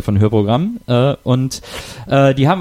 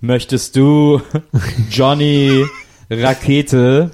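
wedding officiant; much slower than usual. Pretend. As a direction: ask it slowly like a priest at the altar. Mock wedding vows at truck church.

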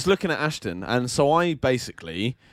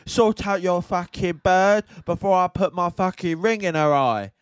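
put-on aggressive girl voice; 2 semitones higher than usual. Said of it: "she was like".

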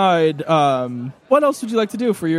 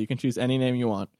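softer, lower repeat of the line; muttered aside, much softer; quiet repeat; 6 semitones lower, 8 dB quieter than usual. Shown as a demonstration. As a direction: say it again, hushed and low.

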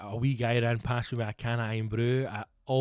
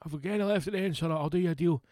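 higher, clearer American vendor voice; American accent; 4 semitones higher, faster than usual. Retold or imitated. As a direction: redo it properly as an American. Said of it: "obviously he's not Scottish".

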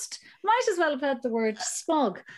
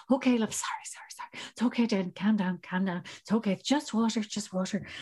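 soft hushed comforting; soothing whisper; 3 semitones lower, 3 dB quieter, faster than usual. Retold or imitated. Mother soothing soaked daughter and son, soft and hushed. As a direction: whisper calming words to the wet child.

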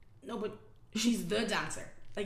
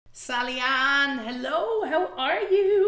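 hammed-up host greeting; 3 semitones higher, 6 dB louder, much slower than usual. Grand formal welcome to guest.

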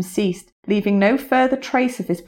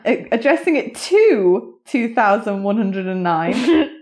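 giggling over the long number; fighting back laughter; laughing through numbers. Real, not acted. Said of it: "I've got to do it now".

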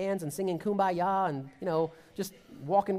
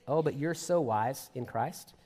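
slow, lower, mocking sarcasm; sarcastic mocking; 5 semitones lower, slower than usual. Paul mocking proud Corinthians, slow sarcastic tone. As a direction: drawl it out as a mild taunt. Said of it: "he's kind of mocking them a little bit, if you listen to the tone".

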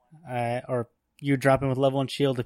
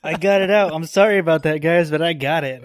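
triumphant; 4 semitones higher, 5 dB louder than usual. Real, not acted. Proud after spitting out bug.

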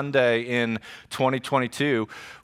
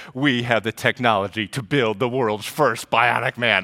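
a hint of a TV narrator, lightly voiced; cool announcer voice; 4 semitones lower than usual. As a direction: lightly play the dramatic intro voice. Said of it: "this cool voice that says".

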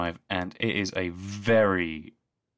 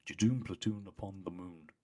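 quieter, muttered stressed rhyme; stressed Ten; 9 dB quieter than usual. Retold or imitated. Fan quotes the frazzled Doctor's rhyme, mildly stressed. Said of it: "a very stressed Ten just going".

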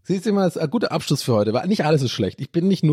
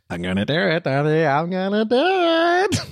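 amerikanischer Akzent, steigend und gedehnt; American accent; 4 semitones higher than usual. Retold or imitated. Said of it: "diesen schönen Moment mit Mitch". (amerikanischer Akzent)

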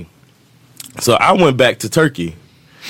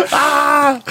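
high "ah" shriek of laughter; imitated laughing cry. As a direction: let out a high, gleeful cackle. Imitates his laughing in the getaway.

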